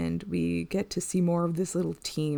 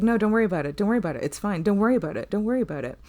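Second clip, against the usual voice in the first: imitating insistent, slightly raised reassurance; mock defensive dismissal; hasty brush-off; 3 semitones higher, 4 dB louder, much faster than usual. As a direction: wave it away over and over, higher pitched. Acting out dismissive aliens' reply.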